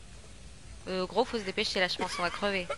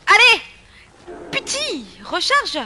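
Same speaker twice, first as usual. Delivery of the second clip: loud, high shouts at the screen; shouting commands in a boss fight; urgent yells; 11 semitones higher, 13 dB louder, slower than usual. Real, not acted. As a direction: yell orders mid-fight. Yelling at the game in a fight.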